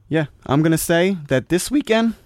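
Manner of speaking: squeaky voice break; voice squeak. Real, not acted. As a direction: voice cracks up high. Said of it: "my voice just squeaked like that".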